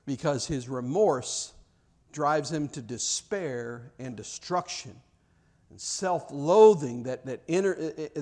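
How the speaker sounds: ordinary talk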